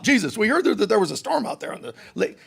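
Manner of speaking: quick, eager on-the-spot reporter voice. Pretend. Reporter interviewing Jesus, quick and eager. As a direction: fire off the question like a TV reporter. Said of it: "reporter on the spot".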